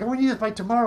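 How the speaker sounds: a touch of panicky urgency; mock freaking out. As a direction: imitate flustered clients on a deadline. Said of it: "they're freaking out".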